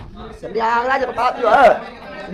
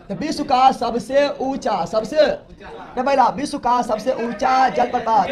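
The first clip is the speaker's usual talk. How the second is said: slowed, drawn-out dictation pace. Shown as a demonstration. Teacher dictating to students, slow and deliberate. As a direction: spell it out slowly for note-taking. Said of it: "लेकिन धीरे धीरे बोलिए".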